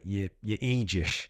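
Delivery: put-on slow, half-hearted Irish accent; rubbish Irish accent. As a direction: mimic dad's scolding in a bad Irish accent. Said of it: "in a rubbish Irish accent".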